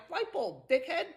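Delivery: lightly voiced deadpan parrot; a hint of bored parrot; nonchalant parrot. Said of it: "So nonchalant".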